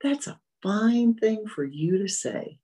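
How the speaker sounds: mock indignant complaint, drawn out; retold mental scream. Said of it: "My mind screamed".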